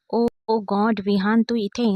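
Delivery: delighted. Acted. Rich classmate greeting Vihan in the mall, gushing. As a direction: squeal with glee at seeing him. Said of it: "Neha आनंदाने म्हणाली".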